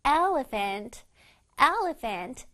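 "elephant" with a slowly sounded first E. Shown as a demonstration. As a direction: take time over the opening E of "elephant". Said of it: "아주 아주 천천히 발음하는 E가".

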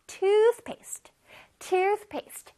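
"toothpaste" drawn out, with a clear th in the middle; careful th. Shown as a demonstration. Teacher reminds kids about the tongue, careful th. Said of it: "혓바닥으로 실뜨기 하는 거 잊지 마세요".

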